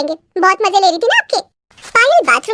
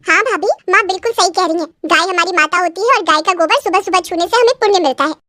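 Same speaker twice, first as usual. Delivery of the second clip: lightly voiced nanad backing her mother; a hint of a preachy younger woman; agreeing sister-in-law. Sister-in-law echoing mother's cow lesson, lightly preachy.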